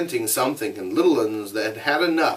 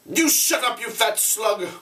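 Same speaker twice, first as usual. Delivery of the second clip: mild mock shout; 11 semitones higher than usual. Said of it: "A shout fronted him tempestuously".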